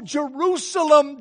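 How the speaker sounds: slow mournful Jerusalem, held long; lament. Acted. Jesus lamenting over Jerusalem, slow sorrowful call. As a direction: grieve over the city, drawn out. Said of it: "Because it's important, because of emphasis".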